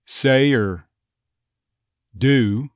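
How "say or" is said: "or" weakened to a bare er; reduced "or". Shown as a demonstration. Coach demonstrates the Texas word for learners, reduced "or". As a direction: say "or" as a plain r-coloured er. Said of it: "common for it to simply become".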